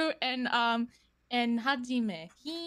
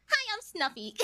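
Snuffy voice; 4 semitones higher than usual. Retold or imitated. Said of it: "And then Snuffy's one".

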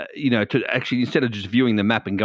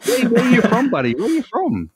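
much higher and louder, eager to know; excited question; 11 semitones higher, 5 dB louder than usual. Real, not acted. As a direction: fire the question with real excitement. Eagerly asking the guest.

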